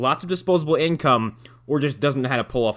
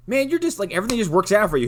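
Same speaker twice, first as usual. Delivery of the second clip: mocking envious kids; 7 semitones higher, faster than usual. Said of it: "Everyone's like".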